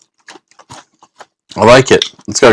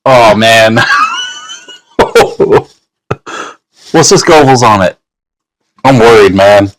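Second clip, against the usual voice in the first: nervous. Real, not acted. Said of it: "I'm honestly worried".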